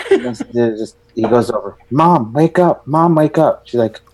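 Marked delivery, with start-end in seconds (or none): 1.9-3.7 higher-pitched mimicry of a kid; lightly acted nagging son; imitating insistent child. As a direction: voice a kid pestering mom awake. Son waking his mother, retold.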